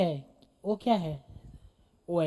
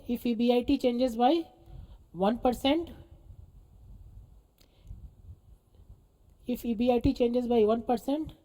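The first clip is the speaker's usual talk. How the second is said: measured dictation with a rising end; same dictation tone; much slower than usual. Real, not acted. Teacher repeating a line for note-takers, dictation tone. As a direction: repeat it evenly for students to write. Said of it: "same tone पे".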